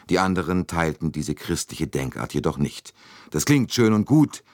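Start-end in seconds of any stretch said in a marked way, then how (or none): 3.3-4.4 uneasy. A narrator's reading. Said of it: "sagte McQueen unruhig".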